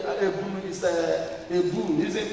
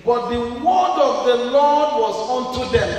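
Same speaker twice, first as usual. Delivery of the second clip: louder call-back of the verse; preaching echo; 3 semitones higher, 7 dB louder than usual. Real, not acted. Preacher echoing the scripture reader, louder.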